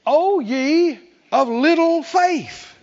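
slow, drawn-out gentle rebuke; Jesus's rebuke. Retold or imitated. Preacher quoting Jesus to disciples, slow mournful rebuke. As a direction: stretch each word like a sorrowful teacher. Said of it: "Oh, he said".

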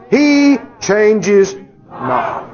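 very slow, each word hammered; emphatic proclamation. Real, not acted. Preacher declaring God's constancy, slow emphatic proclamation. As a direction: lay down each word like a verdict.

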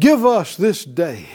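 slow, loud, laughing lead line; slow prayer call. Shown as a demonstration. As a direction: pastor leading the church in prayer, slow and loud. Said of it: "Say it out loud".

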